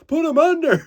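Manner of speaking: very high, loud command; urgent yelled order. Retold or imitated. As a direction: shout it to the team. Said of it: "and they're like".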